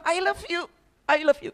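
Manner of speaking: tender murmur to his own hands; soft loving words. Shown as a demonstration. Preacher softly telling his hands he loves them. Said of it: "saya katakan".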